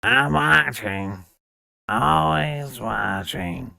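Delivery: slow, drawn-out watchful voice; lightly voiced deadpan office clerk; Roz. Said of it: "I seem to be doing Roz".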